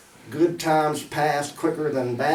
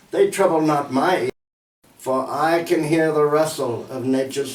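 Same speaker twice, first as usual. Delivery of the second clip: measured, formal verse reading; poem recital. Acted. Poet reciting "Repose" to an audience, measured poem recital. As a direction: recite it line by line, with deliberate phrasing.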